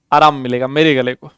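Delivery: a low, soft voice for the tired throat; softly resting the voice. Shown as a demonstration. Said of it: "आप लोग कहोगे तो धीरे बोल दूंगा".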